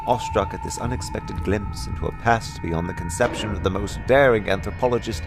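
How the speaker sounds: plain reading voice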